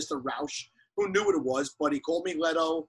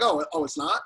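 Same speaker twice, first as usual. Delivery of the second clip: high, startled "oh, it's not?"; mock surprise; 10 semitones higher than usual. Told his name is wrong, high surprised reply. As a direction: caught off guard, pitch jumping up. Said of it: "I'm like".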